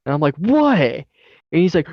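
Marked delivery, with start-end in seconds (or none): 0.4-0.8 high-pitched mock retort; imitated indignant question, pitched way up; retold indignant retort. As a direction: fire back high, re-enacting the row. Acting out his yelled reply.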